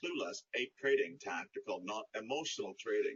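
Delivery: low, hushed robotic voice. Presenting the mission statement to viewers in a robotic voice. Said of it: "I'd like you to hear the robotic voice".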